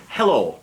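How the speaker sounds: helo said as Welsh hello, hel-o, stressed first; Welsh pronunciation. Shown as a demonstration. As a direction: say helo clearly like a teacher. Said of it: "it's pronounced how it's spelt".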